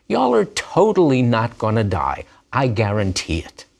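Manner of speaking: lightly voiced smug serpent; mock reassuring snake. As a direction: soothe her with fake certainty. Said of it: "He uses the infinitive absolute to emphasize".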